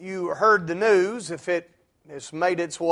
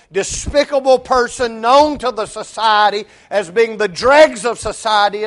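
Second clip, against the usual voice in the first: emphatic preaching; 3 semitones higher than usual. Acted. Preacher lists sinner's traits.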